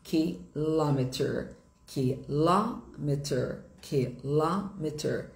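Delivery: slow "Kilometer", broken up as "ki-LAH-meter"; stress on LO. Shown as a demonstration. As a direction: lean hard on "lo" in "Kilometer". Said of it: "a sílaba tônica é em lo".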